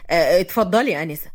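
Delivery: low-pitched, hesitant courtesy; polite man. A narrator's reading. Fahd to the strange woman, politely low.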